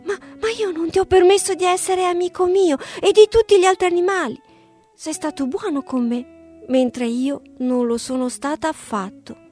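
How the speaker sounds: a touch of regret; bitter. A narrator's reading. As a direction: fox ashamed of herself, mildly. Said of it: "disse la volpe amareggiata".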